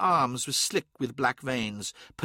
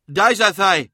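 loud, high-pitched cry; sudden raised cry; 6 semitones higher, 8 dB louder than usual. A narrator's reading. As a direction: call it out in alarm. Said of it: "he cried".

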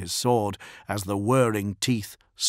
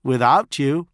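lofty and condescending, a touch louder; supercilious; 5 semitones higher, 5 dB louder than usual. A narrator's reading. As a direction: talk down to him with false thanks. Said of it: "at the supercilious tone".

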